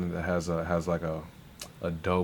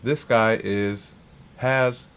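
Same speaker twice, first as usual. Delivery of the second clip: hype shoutout; 3 semitones higher, 4 dB louder than usual. Real, not acted. Hyping the artist.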